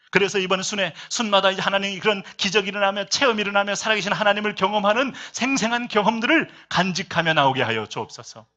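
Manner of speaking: sustained full-voiced sermon climax; preaching into prayer. Real, not acted. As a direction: lead the congregation in a fervent loud plea. Exhortation rising into congregational prayer.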